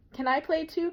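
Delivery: small sister asking to play; little child voice. A narrator's reading. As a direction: beg like a small kid wanting in. Little sister begging to join.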